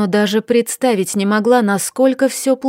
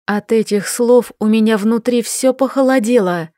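plain reading voice

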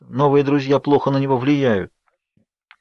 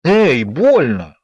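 slow, louder cry of hurt; exclaimed in pain; 4 dB louder, much slower than usual. A narrator's reading. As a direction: call out sharply after falling. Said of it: "воскликнула я". (вскрикнуть от боли)

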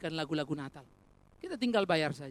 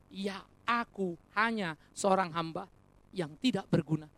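humble servant. Acted. Acting the humble servant's reply.

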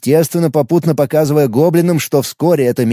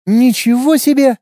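high, loud amazed exclamation; impressed whistle-like wow; 10 semitones higher, 4 dB louder than usual. Acted. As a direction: gasp at the gift. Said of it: "присвистнула она".

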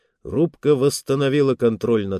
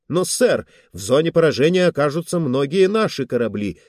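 alarmed objection; 4 semitones higher, faster than usual. Acted. Officer objects to firing order.

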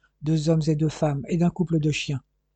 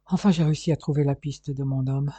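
whisper. Acted. Dying man forcing words out.

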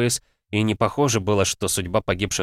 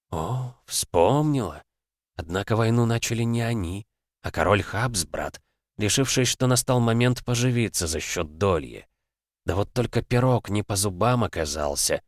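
sultry narrator; 2 semitones higher than usual. Acted. Darkness mocking.

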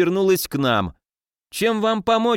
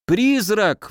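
higher, panicked cry of ghost; terrified yell; 7 semitones higher than usual. A narrator's reading. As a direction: shriek out the ghost warning. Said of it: "вопил он". (испуганный вопль)

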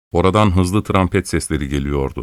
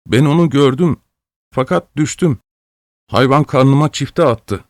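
put-on high, sulky child's objection; a hurt boy defending himself; offended protest; 6 semitones higher than usual. A narrator's reading. Boy answering mocking onlookers, offended high voice. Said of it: "dargın bir sesle itiraz etti".

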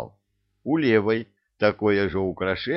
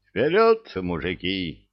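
commanding shout; 4 dB louder than usual. Acted. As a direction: bark the order loudly. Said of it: "скомандовал бывалый".

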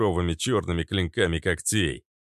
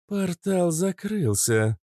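slow, breathless gasp of shock; 11 semitones higher, slower than usual. A narrator's reading. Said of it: "ахнула Кобра".

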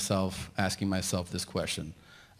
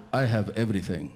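Arab man. Retold or imitated. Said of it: "this one Arab guy".

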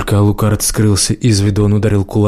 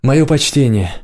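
yelling across the room; 4 semitones higher than usual. Acted. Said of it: "крикнул он через весь зал".

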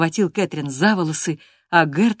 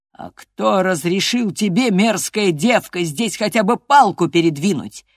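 astonished demand; 3 semitones higher, 7 dB louder than usual. A narrator's reading. Father-in-law challenges the girl over the garden, astonished. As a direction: demand it in loud disbelief. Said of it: "немало удивлённый".

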